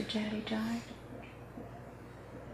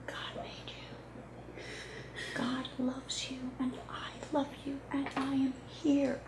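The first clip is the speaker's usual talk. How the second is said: tired new mother; 4 dB quieter than usual. Acted. Mother soothing her child.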